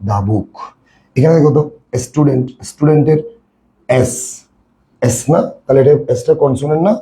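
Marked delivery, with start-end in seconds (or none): 0.1-0.5 "দা" as "daa" before "book", lower. Shown as a demonstration. Teacher answers own question, "দা" said as "daa". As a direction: say "দা" with an "ah" before the consonant. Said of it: "এটাকে আমরা কি বলবো".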